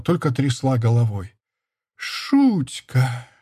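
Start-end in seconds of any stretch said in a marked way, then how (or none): 2.0-3.3 shouted curse. A narrator's reading. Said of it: "выкрикнула потом она".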